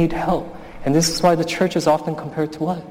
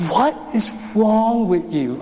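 raised voice; 5 semitones higher, slower than usual. Retold or imitated. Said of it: "I am raising my voice".

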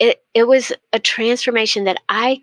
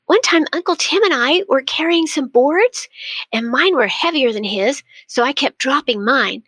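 put-on excited child; 5 semitones higher than usual. Grandson bursting to tell his grandmother his story, excited. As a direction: gush it out like a thrilled little boy. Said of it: "he got so excited. He started saying".

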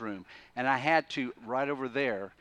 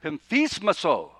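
"Pemphismaso" said louder and firm; stern command; 4 semitones higher, 8 dB louder than usual. Shown as a demonstration. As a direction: command it sharply. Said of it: "put a muzzle on it".

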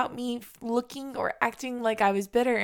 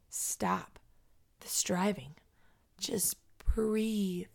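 softer, spaced out with pauses; calming self-talk; 5 dB quieter, slower than usual. Acted. Woman telling herself to stop striving, calming self-talk. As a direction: let it settle gently toward a breath.

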